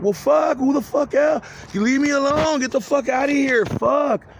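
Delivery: telling the voices to leave him alone, furious; angry outburst. Retold or imitated. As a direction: snap back at the voices in anger. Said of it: "in my mind I'm like".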